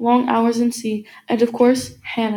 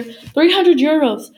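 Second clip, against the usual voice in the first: higher, louder, drawn-out exclamation; slow, raised-voice outburst; exclaimed in disbelief; 5 semitones higher, 6 dB louder, slower than usual. A narrator's reading. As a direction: stretch it out, loud and high. Price repeated in outrage.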